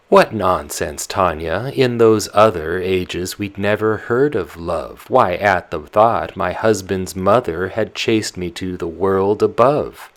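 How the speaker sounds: put-on loud, fussing old nurse voice; the old nyanya, voiced up loud and fretful. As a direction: nurse grumbling about her poor memory. Nurse scolds Tatiana.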